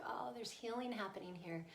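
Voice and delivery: soft, whispered wonder; hushed realization. Retold or imitated. Parent listening finds it good, hushed wonder. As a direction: whisper it like a quiet discovery.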